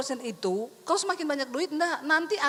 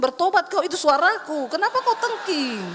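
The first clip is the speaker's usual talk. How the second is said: louder, stern divine rebuke; voice of the Holy Spirit; 4 dB louder than usual. Retold or imitated. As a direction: scold like God correcting her. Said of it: "kata Roh Kudus gini".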